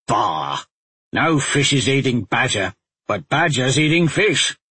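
put-on scoffing gruff old woodcat; gruff huffing badger. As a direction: huff Bah and boast.

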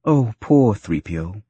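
slow, tender consoling; sympathetic. A narrator's reading. Woman comforting the teased droid, sympathetic.

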